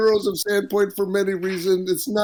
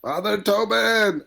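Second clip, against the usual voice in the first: mock crying cry; 5 semitones higher, slower than usual. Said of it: "I'm all just crying".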